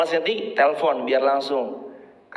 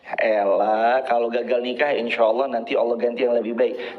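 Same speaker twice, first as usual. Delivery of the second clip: consoling shrug; 4 semitones lower than usual. Acted. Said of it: "Nggak harus dia berarti".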